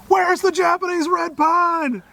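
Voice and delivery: high, drawn-out mock kid yell; screaming kids. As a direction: imitate kids hollering across a garden. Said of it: "screaming at me".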